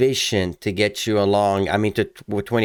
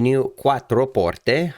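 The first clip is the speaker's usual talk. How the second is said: put-on slow, relished Italian accent; 4 semitones higher, much slower than usual. Host reading out Maserati models, playful Italian accent. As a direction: roll out the name in mock Italian. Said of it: "I'm doing an Italian accent".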